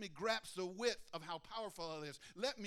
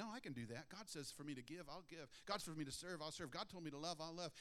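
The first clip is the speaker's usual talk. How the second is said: glib self-assurance; 6 dB quieter than usual. Retold or imitated. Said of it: "are we saying".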